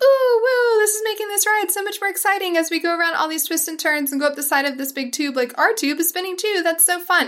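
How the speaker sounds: cheery, gushing, high, rushed, pretend excitement. Describing a terrifying spinning tube ride, acting out mock fun excitement. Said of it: "Not like a fun".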